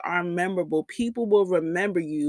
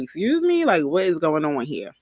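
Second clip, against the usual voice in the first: surprised; 3 semitones lower than usual. Retold or imitated. Shocked at his reaction.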